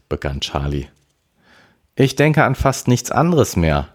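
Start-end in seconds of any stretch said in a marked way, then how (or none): 1.9-3.9 higher-pitched mild irritation; somewhat annoyed. A narrator's reading. Sister answers her brother about the drone business, somewhat annoyed. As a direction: answer back a little irked, voice raised in pitch. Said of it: "gab Melanie etwas genervt zurück".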